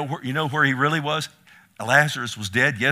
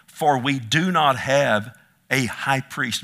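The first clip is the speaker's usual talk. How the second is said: slow, firm, louder reading; measured scripture reading; 5 dB louder, slower than usual. Real, not acted. Preacher first reads Hebrews to congregation, measured. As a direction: read the verse out slowly and firmly.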